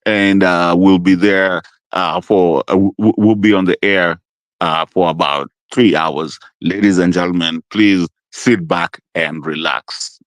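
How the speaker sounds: lightly voiced pilot announcement; low, hesitant captain on the intercom.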